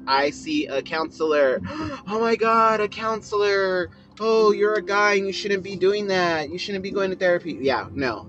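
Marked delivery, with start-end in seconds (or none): 1.7-7.6 high, gasping scandalized outrage; shocked judgment. Pretend. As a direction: play a judgmental gossip aghast at therapy. Mocking people who judge therapy.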